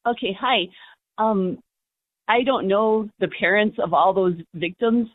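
call-in caller on the phone; radio caller. Real, not acted. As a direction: voice over a phone line.

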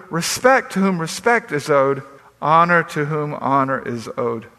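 measured, solemn reading of Romans; scripture reading. Acted. Pastor reading Romans to his congregation, solemn and measured. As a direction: read the verses with pulpit weight.

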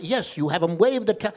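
put-on firm rabbi with a Yiddish accent. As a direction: confirm emphatically with a Yiddish lilt. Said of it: "This is my Yiddish accent".

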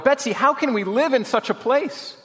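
high wail of despair. A narrator's reading. Corrie asks Betsy how to live here, wailing. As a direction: wail the question, pitched right up. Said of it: "I wailed".

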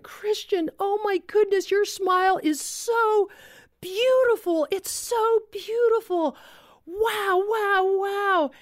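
high, gushing re-enacted amazement; awed delight. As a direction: marvel out loud, stretching the praise. Retelling her delighted exclamation to boy.

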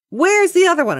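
high-pitched questioning call. Retold or imitated. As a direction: imitate calling from up in the attic. Acted repairman calling from attic.

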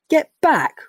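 high, loud startled yelp; shocked high squawk; blurted out. Acted. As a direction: burst it out high and loud through a mouthful of fruit. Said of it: "Rocco blurted out".

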